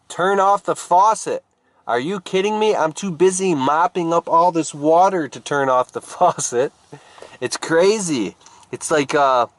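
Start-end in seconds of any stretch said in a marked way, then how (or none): 0.1-1.4 higher-pitched insistent call; urgent order. Acted. Acted advice to mopper, repeated. 1.9-6.7 high-pitched mock indignation; exasperated refusal. Mopper refuses again.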